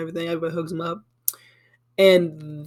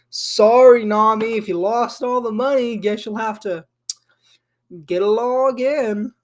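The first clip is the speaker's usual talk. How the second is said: mock apology; 4 semitones higher than usual. Arlong brushing off Nami's stolen money, mock-apologetic. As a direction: taunt her with a put-on, lilting sorry. Villain taunts Nami over lost money.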